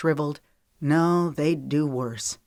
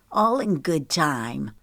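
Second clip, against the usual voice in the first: venomous; slower than usual. Acted. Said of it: "Her voice dripped with venom".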